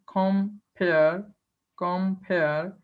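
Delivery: compare split into com and a drawn-out pare; scanned foot. Shown as a demonstration. Teacher counting feet for students, compare in two separated syllables. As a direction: sound out both syllables of compare. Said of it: "another, another, uh, foot".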